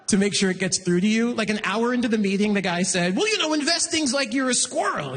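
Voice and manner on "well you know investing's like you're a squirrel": lightly put-on higher banker voice; condescending banker. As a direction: imitate a banker dumbing it down. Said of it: "that's the voice he's using too".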